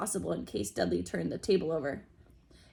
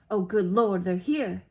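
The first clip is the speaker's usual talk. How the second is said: frantic; 5 dB louder than usual. A narrator's reading. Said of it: "said Aunt Petunia frantically".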